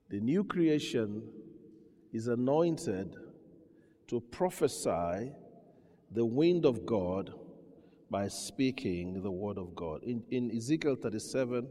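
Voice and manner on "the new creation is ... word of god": slow, every phrase set apart by pauses; slow emphatic repeat. Shown as a demonstration. Preacher repeats the line for the congregation, slow and deliberate. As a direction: repeat it slowly so it sinks in. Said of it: "slow repeat for emphasis".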